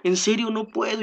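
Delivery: mild imitation of a distressed believer; plaintive, quietly pleading; sad. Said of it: "se ponía triste y me decía".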